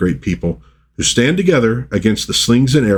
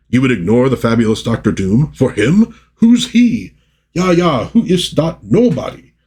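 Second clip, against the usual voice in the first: sneering villain voice; 4 semitones higher than usual. Acted. Villains sneer in comic panel.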